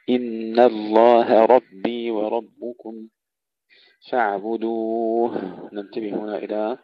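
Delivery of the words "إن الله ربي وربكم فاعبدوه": فاعبدوه ending on a still, audible H; clear final ha. Shown as a demonstration. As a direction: sound the H at the end of فاعبدوه. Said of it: "سكون الهاء وإظهارها عندما نقف". (إظهار الهاء عند الوقف)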